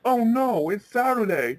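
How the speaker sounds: a touch of "oh no" alarm; mild panic. Acted. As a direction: act out a sudden worried discovery. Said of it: "Ben panicked".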